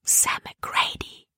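slow unvoiced whisper of a name. A narrator's reading. Libby naming the dangerous prisoner to Caleb, slow whisper. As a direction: let the name out on a frightened breath. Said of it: "flüsterte sie Caleb zu".

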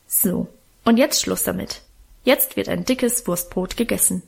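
firm big-sister order, mildly voiced; commanding. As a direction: close the matter with an order. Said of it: "und befahl". (bestimmt befehlend)

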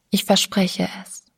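barely voiced whisper; whispered promise. A narrator's reading. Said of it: "sagte sie leise".

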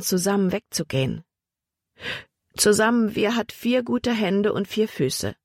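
put-on old Emma, lifting with remembered hope; Emma recalling hope.

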